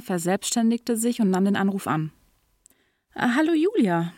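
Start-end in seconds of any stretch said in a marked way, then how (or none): 3.1-4.1 bright, high, fake-cheerful greeting; over-the-top phony cheer; forced cheerfulness. A narrator's reading. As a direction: sound jolly but it's put on. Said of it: "rief er mit gekünstelter Fröhlichkeit".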